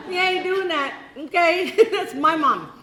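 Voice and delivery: playful imitation of a possessive son, laughing; laughing mock kid. Son guarding his mom from guys, laughing mock voice.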